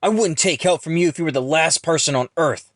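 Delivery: loud, high, bitter rant; furious arguing. A narrator's reading. Ron resents rich Jackson, arguing furiously. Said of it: "Ron then argues".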